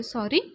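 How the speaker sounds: "Sorry" as a short rising question; questioning echo. A narrator's reading. Friend doubting the apology idea, questioning echo. Friend echoes the word in disbelief.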